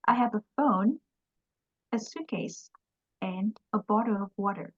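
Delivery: phone and suitcase rise, water falls; list intonation. Shown as a demonstration. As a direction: rise on each item, fall on the last. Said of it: "lên giọng ở tất cả những cái liệt kê và xuống giọng cái cuối cùng".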